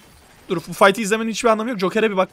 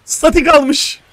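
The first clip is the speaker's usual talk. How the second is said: alarmed report; 7 semitones higher, 8 dB louder, slower than usual. Real, not acted. Coach alarmed checking another player.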